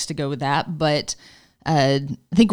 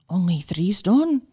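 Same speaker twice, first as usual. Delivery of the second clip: retold amazement, pitched higher; higher, astonished retelling; shocked and amazed; 4 semitones higher than usual. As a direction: marvel at the story as she did. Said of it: "she was shocked and amazed".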